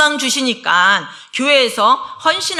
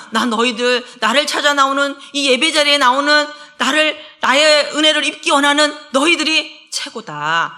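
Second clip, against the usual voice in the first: proud fatherly praise; 4 semitones higher than usual. Acted. God praising his worshippers.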